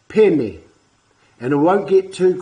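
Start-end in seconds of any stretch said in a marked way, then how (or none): 0.1-0.6 "Pene" alone, clear and firm; just "Pene", crisp; isolated word. Shown as a demonstration. Teacher repeating the new word, firm. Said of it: "you're teaching a new word".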